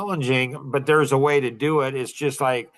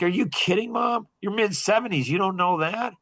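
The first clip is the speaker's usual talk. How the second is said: raised pitch, challenging his mom without shouting; high-voiced incredulous retort; 6 semitones higher than usual. Son challenging his mom about women, high-pitched incredulous retort. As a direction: reenact a high-pitched, disbelieving comeback. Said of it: "Just in that voice".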